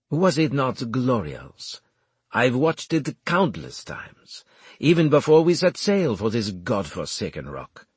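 proud strategist relishing his victory; Armel, elated. Acted.

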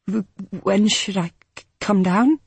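stammering through chattering teeth; shivering with cold, teeth chattering. Acted. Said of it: "her teeth chattered".

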